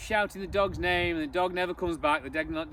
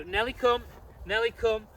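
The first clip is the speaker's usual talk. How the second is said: recall command; 3 semitones higher than usual. Shown as a demonstration. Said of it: "and go".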